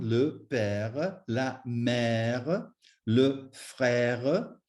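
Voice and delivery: "père", "mère", "frère" with a long open eh before the r; open è sound. Shown as a demonstration. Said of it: "to make the R sound".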